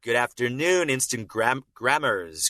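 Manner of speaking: punched R's in "grammars"; Chad Lindberg. Acted. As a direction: lightly imitate a man who leans on the r in "grammars". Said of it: "when Chad pronounces his R's".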